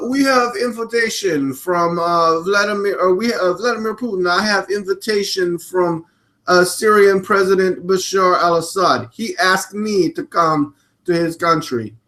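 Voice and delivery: put-on Russian English; Russian accent. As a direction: imitate a Russian making an official statement. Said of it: "I'm trying to do a Russian accent".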